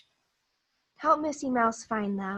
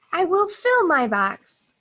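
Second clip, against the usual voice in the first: character voice; 6 semitones higher, 6 dB louder than usual. Acted. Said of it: "He said".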